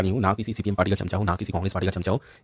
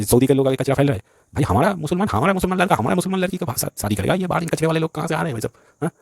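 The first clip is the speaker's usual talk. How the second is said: much higher pitch, indignant and insistent; heated rant; 6 semitones higher than usual. Real, not acted. Lecturing viewers about marriages, high-pitched outraged rant.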